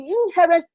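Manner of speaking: slight stress on the word "inherent"; emphasis on inherent. Real, not acted. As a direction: lean a little on "inherent". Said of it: "I'm laying emphasis on the word inherent".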